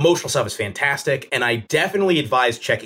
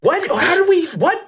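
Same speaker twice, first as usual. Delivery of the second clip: much higher, laughing disbelief; incredulous; 9 semitones higher than usual. Retold or imitated. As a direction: act baffled by the nonsense. Mock outrage at show logic.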